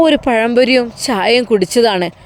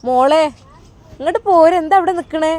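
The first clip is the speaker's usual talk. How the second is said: higher-pitched motherly beckoning; affectionate call; 5 semitones higher than usual. Acted. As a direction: lovingly call a shy girl over. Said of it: "സ്നേഹത്തോടെ ഐഷുമ്മ വിളിച്ചു". (സ്നേഹത്തോടെ വിളിക്കുന്നു)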